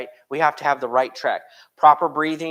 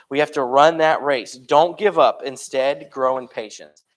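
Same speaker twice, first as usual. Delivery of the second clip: louder, driving urge to keep going; preaching exhortation; 5 dB louder than usual. Acted. Preacher urging his church to keep running the race. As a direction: push the congregation not to quit.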